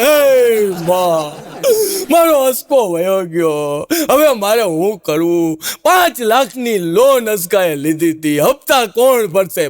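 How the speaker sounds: slow hammed-up wailing; exaggerated slow grieving moan; mock wail. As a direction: drag the words out as if weeping for a friend. Friend mock-wails the lament.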